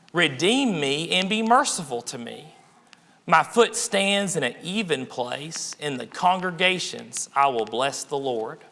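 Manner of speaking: slow, measured psalm reading; unhurried Bible reading from the pulpit; scripture recitation. Acted. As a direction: recite the verse slowly, phrase by phrase.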